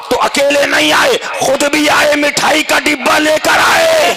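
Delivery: high, ringing punchline delivery; full-force preaching. Acted. Preacher revealing the dead man brought sweets, high chanted shout. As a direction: ring it out to the crowd.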